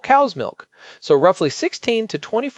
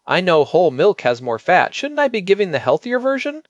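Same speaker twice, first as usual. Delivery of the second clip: mildly imitating an apologetic parent, rising into the question; almost apologetic. Parents questioning the pediatric advice, mildly apologetic imitation. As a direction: lightly voice a hesitant, apologetic question. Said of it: "they're almost apologetic".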